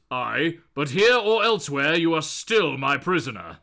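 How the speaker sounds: lightly voiced stern god; Thor. God warning his prisoner, lightly voiced stern tone. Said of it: "And Thor goes".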